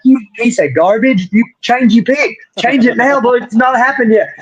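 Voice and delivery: half-joking fury at a friend; replaying yelling at Greg over his pick; retold outburst. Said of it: "I was real mad".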